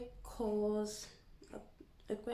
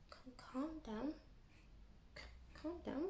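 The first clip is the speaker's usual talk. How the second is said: much softer, higher mock soothing; hushed calm down; 5 semitones higher, 13 dB quieter than usual. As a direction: whisper it like calming a child. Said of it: "soothing aside to customer".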